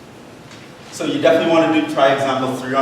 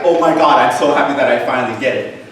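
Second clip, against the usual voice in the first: louder, mock thrilled; mock excitement; 5 dB louder than usual. Teacher voicing a student's breakthrough, mock thrilled. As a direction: gush like a relieved student. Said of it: "you're like".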